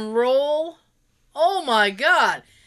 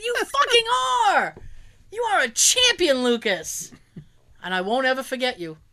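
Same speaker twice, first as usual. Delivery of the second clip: gushing praise. Retold or imitated. Gushing praise quoted in story.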